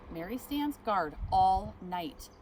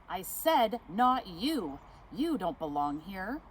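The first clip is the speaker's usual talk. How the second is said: slow, louder, stern no; firm refusal; 5 dB louder, slower than usual. Acted. Manager to Mary, a stern slow refusal. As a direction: shut her out, slowly and firmly.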